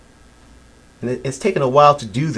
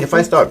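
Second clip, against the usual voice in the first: guttural growl; 7 semitones lower than usual. Shown as a demonstration. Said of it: "a prescribed guttural sound".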